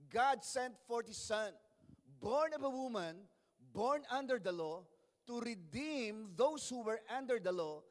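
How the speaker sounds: slow, emphatic Bible reading; measured pulpit reading with drawn-out key words; scripture reading. Real, not acted. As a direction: proclaim the verse phrase by phrase. Reads scripture aloud to congregation.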